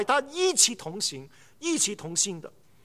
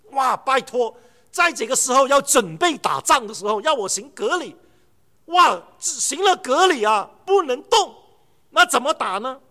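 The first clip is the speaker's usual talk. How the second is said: louder, exasperated complaint; mock protest; 4 dB louder than usual. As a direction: act out the people's objection. Voicing Israelites protesting.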